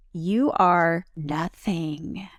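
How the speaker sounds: slow, drawn-out imitated whisper; retold whisper. Host imitating Ariana telling Tom off, in a slow whisper. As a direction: mimic her cutting line in a slow whisper. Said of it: "The whisper".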